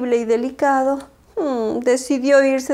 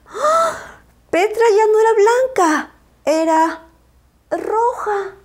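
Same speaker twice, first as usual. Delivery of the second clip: high, startled gasp; surprised; 9 semitones higher than usual. A narrator's reading. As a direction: gasp in amazement. Surprise on seeing Petra.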